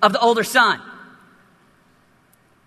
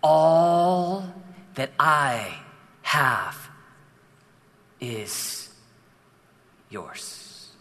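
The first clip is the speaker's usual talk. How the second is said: slower still, fading into a whisper on yours; whispered retake; 10 semitones lower, 6 dB quieter, much slower than usual. Acted. Pastor redoes the father's line to the son, slow and whispered. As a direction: draw each word out and let the last one vanish into a whisper. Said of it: "Let's do that again".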